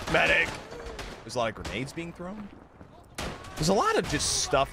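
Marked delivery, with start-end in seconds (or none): 0.1-0.5 shouted call. Real, not acted. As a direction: shout for a medic. Calling for a medic.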